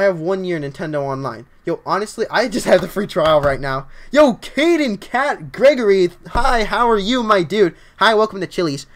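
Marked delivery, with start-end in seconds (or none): 4.1-7.7 loud, high, stretched-out hello; hyped greeting. Real, not acted. Streamer greets an arriving viewer, hyped shout-out. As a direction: hail the viewer like an announcer.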